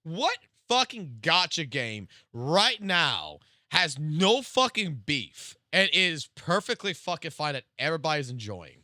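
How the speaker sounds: hammed-up indignation, dragging it out; mock outrage. Real, not acted.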